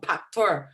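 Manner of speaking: "factor" said as "paktor"; accented mispronunciation. Shown as a demonstration. Teacher imagines examinee's slip, "factor" as "paktor". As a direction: open "factor" with a p sound. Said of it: "Kunyari sinabi mong factor".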